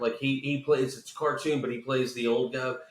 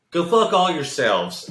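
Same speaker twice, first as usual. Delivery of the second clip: mock shout; 5 semitones higher, 8 dB louder than usual. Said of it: "then he goes".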